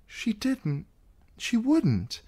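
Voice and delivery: desperate protest; a niece defending her mother; pleading Sansa. Acted.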